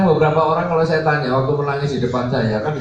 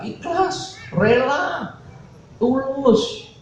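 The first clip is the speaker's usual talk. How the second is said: much higher, soft mock answer; imitated eager devotee; 10 semitones higher, 3 dB quieter, much slower than usual. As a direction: pipe each word up high, like a dutiful follower. Acts devotee's answer on sincere giving.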